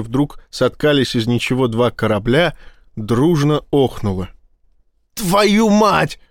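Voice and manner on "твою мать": high, sharp squealing oath; squealed curse. A narrator's reading. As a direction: yelp it out in shock. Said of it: "взвизгнул Рабинович". (взвизгнул, высоко и резко)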